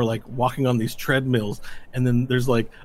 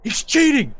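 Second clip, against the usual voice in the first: high, loud outraged cry; squawking sore loser; indignant accusation; 14 semitones higher, 6 dB louder than usual. Acted. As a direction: accuse your opponent in front of everyone.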